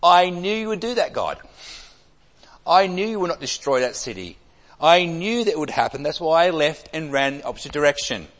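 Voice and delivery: loud, exasperated I-told-you-so; Jonah's indignant outburst. Acted. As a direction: throw it at God like a sulking prophet. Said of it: "In other words".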